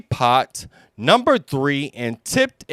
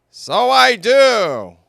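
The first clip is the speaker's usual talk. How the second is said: Owl voice; 10 semitones higher, 7 dB louder than usual. Acted. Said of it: "said Owl".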